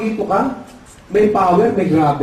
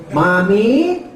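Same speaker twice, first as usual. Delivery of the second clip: mock nasal cleft-palate speech; comic ngongo voice; ngongo speaker; much slower than usual. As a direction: imitate someone with muffled consonants. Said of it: "ng ngongo".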